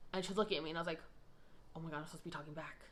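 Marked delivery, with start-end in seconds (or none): 1.8-2.8 panicked thought. Retold or imitated. Panicked inner thought in meeting.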